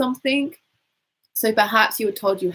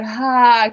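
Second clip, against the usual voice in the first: breathy yawning ha; 5 dB louder than usual. Shown as a demonstration. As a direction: open exhale on ha. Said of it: "Breathing out through the mouth".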